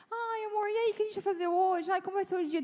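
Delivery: high, chirpy, rushing morning greeting; bubbly morning cheer. Retold or imitated. Wife greeting husband at dawn, high and bubbly. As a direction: gush at your husband like the day's a party. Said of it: "eu acordo de manhã já assim".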